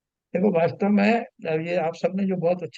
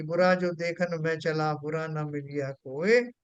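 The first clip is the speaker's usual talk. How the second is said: poem recital; 2 semitones lower, slower than usual. Retold or imitated. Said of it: "Kabirdas जी की तरह".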